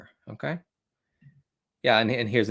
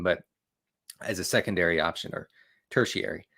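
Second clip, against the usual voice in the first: ordinary delivery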